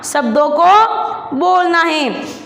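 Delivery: very slow, every word spaced out; slow emphatic instruction. Shown as a demonstration. Teacher tells pupils to say words, very slowly. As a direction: spell it out slowly for small children. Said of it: "teacher spelling out instruction".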